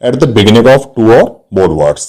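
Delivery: spaced words for note-taking; teacher dictating a definition to students, slowly; slow dictation. Shown as a demonstration. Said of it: "dictating a definition".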